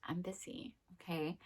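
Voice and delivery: soft, curt no with a huffy okay; softly curt refusal to a coworker; snippy brush-off. Retold or imitated. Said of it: "And you're like".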